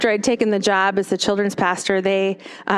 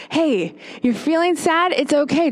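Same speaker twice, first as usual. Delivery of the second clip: put-on higher, gentle voice for a child; talking to a child; 5 semitones higher than usual. Psychologist comforting a sad kid, gently higher. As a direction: lift your voice as if kneeling to a small child. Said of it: "she uses this with kids a lot".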